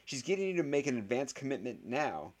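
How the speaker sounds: high, frantic pleading; wailing. A narrator's reading. Boy warns voters about rival's scheme, wailing. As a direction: plead in rising panic. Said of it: "wailed Harry Potter".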